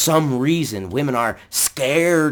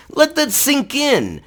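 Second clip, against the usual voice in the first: slow emphatic; 11 semitones higher, slower than usual. Real, not acted.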